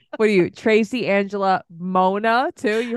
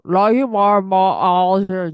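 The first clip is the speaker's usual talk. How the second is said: a light mock of the mother reading the card; imitating her mom's voice; 5 dB louder than usual. Friend reads the canvas quote in the mother's voice, lightly mimicked. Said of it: "You read it in her voice".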